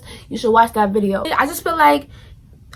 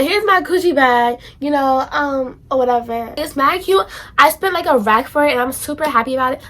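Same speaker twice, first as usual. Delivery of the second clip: bougie show-off. Pretend. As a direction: show it off like a spoiled rich girl. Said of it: "That's not me".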